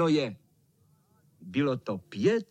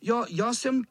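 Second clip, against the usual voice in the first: put-on higher brave small boy; little boy shouting; 7 semitones higher than usual. A narrator's reading. Smallest boy bravely claims he is biggest. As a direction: stand up tall and shout. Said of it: "křičel malý".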